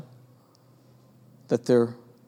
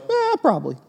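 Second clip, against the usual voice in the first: shrugging Peter. Pretend. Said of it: "Is he supposed to go".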